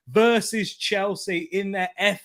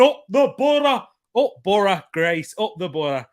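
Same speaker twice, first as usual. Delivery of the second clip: put-on raised cheer slipping into a Scottish accent; 4 semitones higher, 4 dB louder than usual. Streamer reads out a fan's cheer, in an accidental Scottish accent. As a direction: chant it with a touch of Scottish. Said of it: "like, a Scottish accent".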